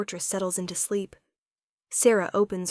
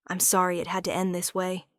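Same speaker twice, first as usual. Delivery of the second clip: voice breaking. Acted. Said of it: "voice breaking".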